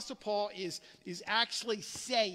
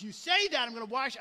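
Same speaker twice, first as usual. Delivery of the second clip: mom's warning; 4 dB louder, faster than usual. Retold or imitated. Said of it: "my mom says".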